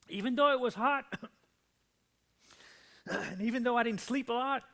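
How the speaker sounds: high, loud voice pushed to strain; straining shout. Retold or imitated. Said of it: "I've strained my voice".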